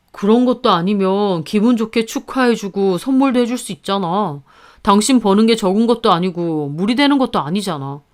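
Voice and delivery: lightly voiced husband, mildly reproachful; a hint of a husband chiding his wife. Husband pressing wife to give his sister a gift, lightly voiced reproach.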